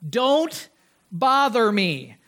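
slow, separated words, firm refusal; unaccommodating. Acted. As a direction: turn them away word by word, slowly. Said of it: "no kind of hint of being accommodating".

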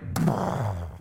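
short lip-blown eruption sound; volcano noise. Shown as a demonstration. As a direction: imitate a volcano blowing its top. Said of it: "like a volcano".

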